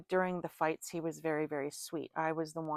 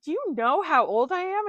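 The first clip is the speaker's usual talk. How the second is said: shocked question; 10 semitones higher, 8 dB louder than usual. Retold or imitated.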